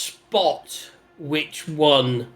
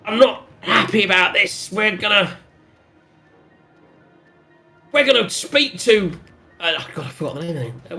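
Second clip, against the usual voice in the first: stubborn NPC voice; 5 semitones higher than usual. Acted.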